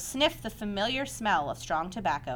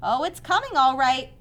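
higher, louder, airy reassurance; light, breezy; 6 semitones higher, 8 dB louder than usual. A narrator's reading. Spider updating the anxious pig on her plan, lightly. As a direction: brush the worry off lightly. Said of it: "she said lightly".

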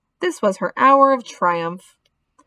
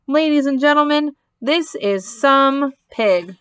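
loudspeaker announcer; 3 semitones higher than usual. Acted. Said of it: "said the loudspeaker".

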